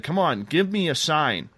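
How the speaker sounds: mildly pleading, as retold; coaxing plea. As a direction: coax it to answer. Retelling his plea to the creature.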